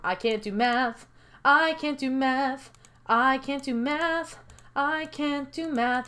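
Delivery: drawn-out, repeated mock lament; hammed-up helplessness; mock helpless. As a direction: chant it slowly in playful despair. Player panics at math puzzle.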